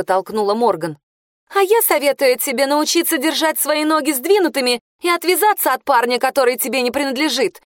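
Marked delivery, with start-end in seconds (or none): 1.5-7.6 выше и напористо, с угрозой; дави угрозой, не сбавляя; злая угроза. A narrator's reading. Бьянка угрожает Морган. (Бьянка грозит Морган расправой, зло и напористо)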